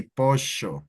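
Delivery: pollo with ll said like sh; Argentine accent. Shown as a demonstration. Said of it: "double L sound like a sh".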